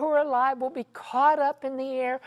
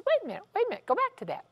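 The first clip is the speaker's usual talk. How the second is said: startled interruption; 9 semitones higher, much faster than usual. Retold or imitated. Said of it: "and she says".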